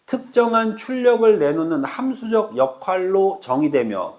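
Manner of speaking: measured read-out ending in a break after "정의되며"; phrase break after 정의되며. Shown as a demonstration. Teacher showing students how to chunk the passage, phrase break after "정의되며". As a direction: read the clause as one chunk, then stop after "정의되며". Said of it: "끊어".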